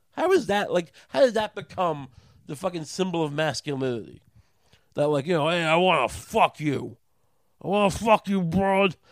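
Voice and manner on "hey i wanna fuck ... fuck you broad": loud, slow leering catcall; crude catcaller. Retold or imitated. Mocking the macho man's line to a woman, loud leering yell. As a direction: ham up a sleazy macho yell.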